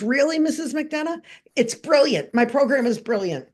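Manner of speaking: imitating a snarky little guy; John Collins. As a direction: retell it with a touch of smug snark. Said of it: "John Collins is a very snarky little guy".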